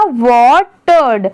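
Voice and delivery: वाटर्ड drawn out slowly, each part joined; slow blended reading. Shown as a demonstration. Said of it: "अगर इसको फटाक से पढ़ेंगे". (वाटर्ड को धीरे-धीरे जोड़कर पढ़ना)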